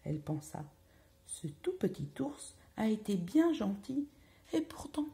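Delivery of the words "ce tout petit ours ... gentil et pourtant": softly, a touch higher; soft pensive thought. A narrator's reading. Goldilocks thinking about the kind bear, softly. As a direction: think it aloud gently.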